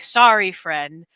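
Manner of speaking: a hint of noble Optimus, lightly voiced; mock sincere Optimus. Player imitating Optimus apologizing to a teammate, mock sincere. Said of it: "in the most sincere voice".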